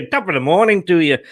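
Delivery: a rushed, badly faked Irish lilt; clumsy mock Irish; bad Irish accent. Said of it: "that was bad, wasn't it?".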